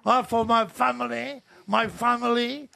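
mocking an American president's speech; presidential address. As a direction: lightly ham up a US president's address. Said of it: "il parle comme un, un président américain".

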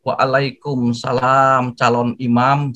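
a drawn-out, teasing "Waalaikumsalam, calon imam"; mock flirty reply.

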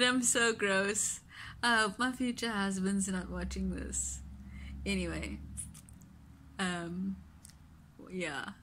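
fingers holding lip up; talking with lip pulled up. Real, not acted. Seen 2: Fingers hold upper lip up, showing braces, throughout the labelled words.

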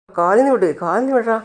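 jolted awake, yelling to be released; panicked. Acted. Woken friend panics about leg.

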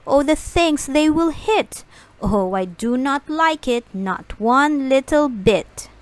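fish objecting to kites in the house; protesting fish. Acted.

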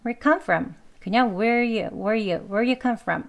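"where you come from" with the do dropped; very weak, linked "where you" before "come from"; do inaudible. Shown as a demonstration. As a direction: glide "where" straight into "you". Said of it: "두에 해당하는 소리가 아예 안 들리는".

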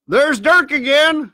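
loud, high, drawn-out warning; alarmed call. A narrator's reading. Crewman hears the danger whistle, calling out in alarm. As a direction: sing out the warning slowly.

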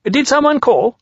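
high-pitched interrupting question; high storybook rabbit; perky Rabbit. A narrator's reading. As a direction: pop up with a high query. Narrator voices Rabbit popping up.

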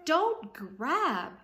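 scolding. Acted. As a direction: stop him grabbing. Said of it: "said Alice, slapping his paw".

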